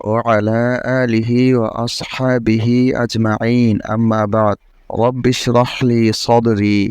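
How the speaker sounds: slow, measured prayer recitation; Arabic recitation. Acted. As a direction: recite the opening dua with reverence. Opening Arabic praise and prayer.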